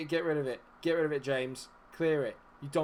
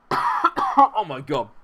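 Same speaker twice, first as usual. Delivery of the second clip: loud, drawn-out disbelief; stunned celebration; 11 dB louder, much slower than usual. Real, not acted. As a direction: burst out in shock at the goal. Celebrating an equalising goal.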